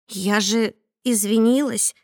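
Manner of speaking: usual speaking voice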